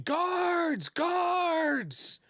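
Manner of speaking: high-pitched, drawn-out cry of alarm; screaming for guards. Acted. Woman waking the whole guild hall, screaming. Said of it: "a woman screaming".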